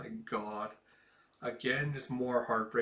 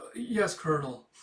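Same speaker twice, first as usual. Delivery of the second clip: nervous stammer; 4 semitones higher, 3 dB louder than usual. Retold or imitated. Nervous officer answering colonel.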